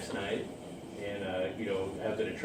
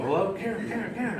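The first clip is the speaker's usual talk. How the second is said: high-pitched calling down the phone, only mildly raised; mock yelling into a phone, pitched up; retold phone yell; 9 semitones higher than usual. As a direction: call her name to rouse her over the phone. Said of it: "I'm yelling on the phone".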